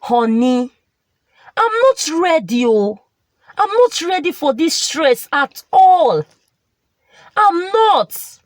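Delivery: mild sulky whine, rising on the final not; a hint of a pouting wife; sulking.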